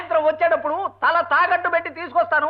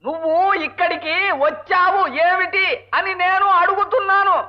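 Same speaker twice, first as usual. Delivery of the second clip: slow emphatic repeat; 3 semitones higher, slower than usual. Acted. Husband repeating his question slowly to his mishearing wife. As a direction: drag each word out so she can't miss it.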